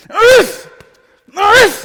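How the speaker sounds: very loud, high, half-yelled huffing exhales. Boxing coach demonstrating breathing while punching, almost yelling. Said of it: "Notice I'm yelling almost".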